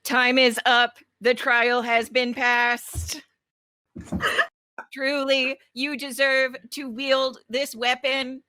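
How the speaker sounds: grand announcing voice, slow on the ruling; solemn trial voice. Acted. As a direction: declare it like a ceremonial judge.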